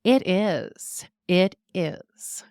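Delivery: put-on clipped, matter-of-fact Bavarian German accent. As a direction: answer like a confident Bavarian friend. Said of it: "she would respond with".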